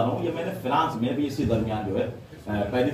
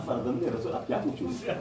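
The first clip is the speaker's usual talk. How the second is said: awed whisper; 4 semitones lower, 7 dB quieter than usual. Acted. Trembling disciple, overwhelmed, whispered.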